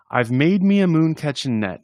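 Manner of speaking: breathy whispered opening line. Acted. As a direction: hush the first line like a secret. Poem opening read softly.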